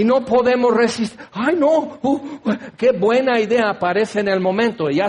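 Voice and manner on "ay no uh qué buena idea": higher gushing ay no; mock delighted. Shopper seeing a sale, mock delight. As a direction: swoon over the idea.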